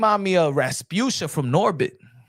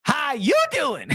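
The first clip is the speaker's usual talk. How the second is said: Rasputia impression; 4 semitones higher, slower than usual. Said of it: "Rasputia from Norbit".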